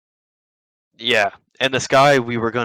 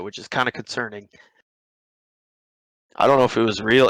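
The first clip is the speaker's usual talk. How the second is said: ordinary talk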